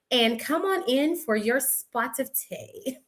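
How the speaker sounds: a light mock British lilt on the invite; cheerful fake British hostess; British accent, barely put on. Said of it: "I have a horrible, horrible accent".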